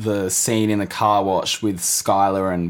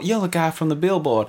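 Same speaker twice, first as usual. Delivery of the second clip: put-on starstruck teen; 5 semitones higher than usual. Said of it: "Walt Junior's all".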